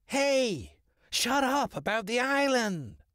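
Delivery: high, urgent bird scolding; hushed scolding crow. Acted. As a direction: hush the hawk sharply. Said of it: "scolded the crow in a hushed tone".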